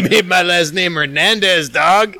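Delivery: high caricatured Chicano lilt; mock Chicano accent. Co-host defending the accent to the host, mock Chicano accent. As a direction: put on an exaggerated Chicano accent. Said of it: "doing a super racist accent".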